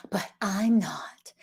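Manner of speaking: drawn-out pretend protest; mock protest. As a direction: play a listener's feeble objection. Acts out listener's objection.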